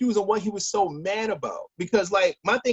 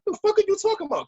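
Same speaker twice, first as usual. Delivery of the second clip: baffled outburst; 12 semitones higher, faster than usual. Retold or imitated. Retelling the brother's phone call, baffled high outburst. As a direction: pitch jumps way up in retold disbelief. Retold confused phone reply.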